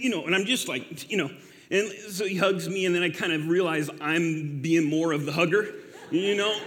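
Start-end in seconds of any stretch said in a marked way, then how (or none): 6.1-6.6 laughing. Real, not acted. Laughs at being the hugger.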